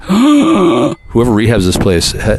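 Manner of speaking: slow, gasping, theatrical repeat; gasp, then stretch it out slowly; a hammed-up mock alarm.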